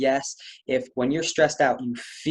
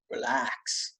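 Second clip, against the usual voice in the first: whispered relax; 7 dB quieter than usual. Retold or imitated. Vagus nerve message.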